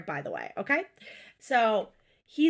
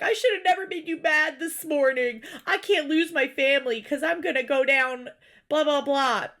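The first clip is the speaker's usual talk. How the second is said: slightly raised imitation of a pleading husband; mock sobbing; 3 semitones higher than usual. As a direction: plead it mockingly, trailing into dismissive blahs. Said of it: "He starts sobbing".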